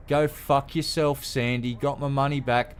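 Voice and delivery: loud, high, furious yell at Sandy; angry shout. Real, not acted. Ranting viewer shouting at the seller who blocked him, furious yell. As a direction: spit the words out in real fury.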